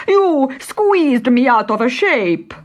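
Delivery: a stretched bandit voice, slow and loud; fat bandit exclaiming. Acted. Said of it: "exclaimed the fat one".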